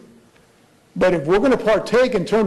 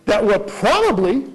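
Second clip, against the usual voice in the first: probably drawn out slowly and stressed; slow down and weigh the word probably; reading the quote, dwelling on probably. Shown as a demonstration. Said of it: "emphasize probably".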